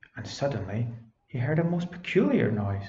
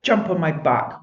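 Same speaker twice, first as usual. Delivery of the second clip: woofed; 5 semitones higher, 5 dB louder than usual. Acted. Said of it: "woofed Bobs".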